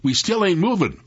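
high, exasperated call; yelled out. A narrator's reading. Sam struggling with the mules, yelling out to Jeff. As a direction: holler it with contained force. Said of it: "yelled out".

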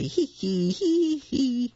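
high snorting giggle; piglet giggles. A narrator's reading. Two little pigs laughing at Daddy, high and giggly. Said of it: "The two little pigs snort and say".

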